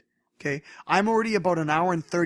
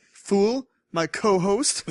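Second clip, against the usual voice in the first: mock gloating; 3 semitones higher, 5 dB louder, much slower than usual. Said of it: "I'm like".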